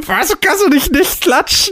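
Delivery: high, teasing half-shout; couple bickering. Real, not acted. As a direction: needle her playfully, nearly yelling. Teasing banter over clapping. (neckendes Streiten)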